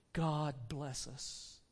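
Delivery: slow, low, soft blessing; father's toast. Acted. Bob blesses his family at dinner, gentle toast. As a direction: give a quiet, measured family toast. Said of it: "Then Bob proposed".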